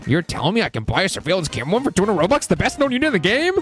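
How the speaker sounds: mock-amazed sarcasm, pitch climbing at the end; sarcastic. Real, not acted. Streamer mocking an in-game offer for Robux, sarcastic. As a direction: feign disbelief, rising high on the last phrase. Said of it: "That's, uh, sarcasm, by the way".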